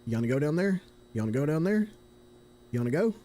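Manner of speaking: hammed-up Southern redneck questioning; redneck accent. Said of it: "a fucking redneck saying".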